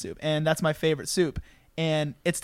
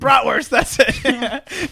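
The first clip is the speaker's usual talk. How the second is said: excited; 8 semitones higher, 9 dB louder, much slower than usual. Real, not acted. Finally remembers the word.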